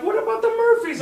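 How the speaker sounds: very high, loud squawk; outraged yell. Retold or imitated. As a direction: imitate a friend yelling in protest. Friend protests at the forgotten beer.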